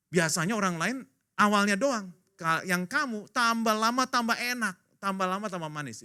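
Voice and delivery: high-pitched amazed proclamation; marvelling praise. Acted. Feast master at Cana praising better wine, amazed. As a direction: exclaim it with rising wonder.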